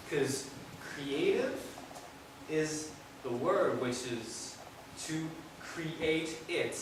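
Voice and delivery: rhythmic recital with shifting pitch and volume; spoken-word poem. Acted. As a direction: perform it as a story in verse.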